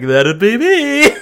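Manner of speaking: very high, loud and slow; high camp voice. Retold or imitated. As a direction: squeal it out slowly and high. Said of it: "I'd be like".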